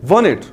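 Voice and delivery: wanted said wa-nid; teacher repeats wanted for students; wanted, t silent. Shown as a demonstration. Wanted बिना टी. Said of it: "T remain silent".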